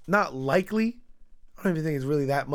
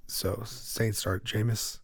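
sexy voice; 3 semitones lower than usual. Pretend. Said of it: "my sexy voice going".

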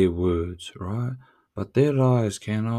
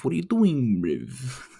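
higher mock voice teasing a helpless guy; mock taunt; 4 semitones higher than usual. Taunting someone dragging his nuts on glass, mock voice. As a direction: tease him in a raised put-on voice.

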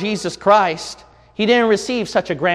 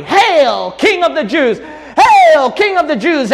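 loud, high jeering cry of the crowd; sneering mock acclaim shouted high; 8 semitones higher, 6 dB louder than usual. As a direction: hurl it like a scornful mob. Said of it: "Everyone crying out in mockery".

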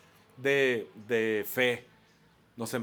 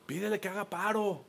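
higher-pitched imitation of an Israeli groom; Israeli accent; 7 semitones higher than usual. Israeli groom asks pastor for a favour, Israeli accent. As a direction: plead in Spanish with an Israeli accent. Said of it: "con su acento así padrísimo".

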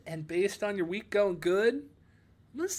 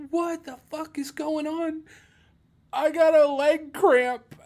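retold confused reply; 8 semitones higher, 6 dB louder, slower than usual. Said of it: "I was like".

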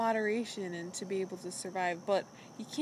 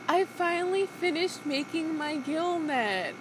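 excited Callie; 7 semitones higher than usual. Retold or imitated.

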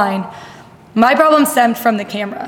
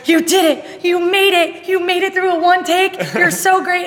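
higher, beaming encouragement; cheerful praise; 8 semitones higher than usual. Retold or imitated. Kathy praising nervous coach after first take, high and bubbly. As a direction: gush over her like a proud colleague. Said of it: "She was like".

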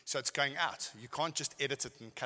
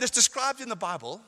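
high and loud preaching, before toning down; loud first take; 9 semitones higher, 8 dB louder than usual. Shown as a demonstration. Preacher shouting the Bible line at the congregation. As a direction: push it out with force. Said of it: "then I toned down".

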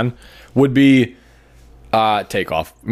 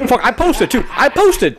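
high-pitched, through laughter; squeaky-high laughing boast; 11 semitones higher than usual. Real, not acted. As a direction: crack up while getting the words out. Cracking up at own joke.

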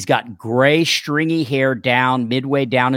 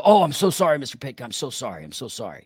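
mock grovelling apology; 3 dB quieter, faster than usual. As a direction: act out a meek, repeated apology. Mock apology he didn't give.

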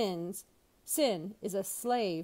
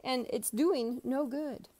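higher, exasperated plea with a near-crying edge; frustrated Jesus; 4 semitones higher than usual. Retold or imitated. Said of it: "he gets a little frustrated".

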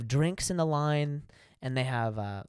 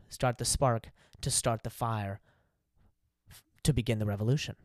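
movie line; 3 semitones lower than usual. Retold or imitated. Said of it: "finish it with a line from episode eight".

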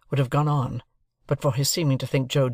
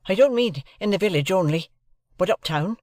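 higher, careful, deferential youth; polite young Pip; 6 semitones higher than usual. A narrator's reading. Pip asks the lawyer's leave to say goodbye, polite. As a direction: ask permission politely, voice lifted.

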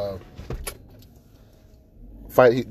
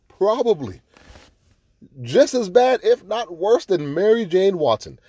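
louder, higher exasperated rant; indignant rant; 6 semitones higher, 3 dB louder than usual. Real, not acted. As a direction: vent about the character. Ranting about Amber.

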